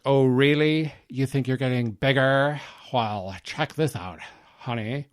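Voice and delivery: lightly voiced outraged wife, sarcastic; mock indignant wife. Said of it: "And she's like".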